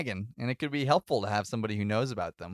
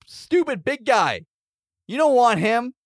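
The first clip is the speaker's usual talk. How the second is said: high, loud taunting shout; yell at the golem; 9 semitones higher, 8 dB louder, slower than usual. Acted. Player yelling at a giant golem to drop her dragon, loud high shout. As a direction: holler up at a giant to get its attention. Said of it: "I'm gonna yell at the golem".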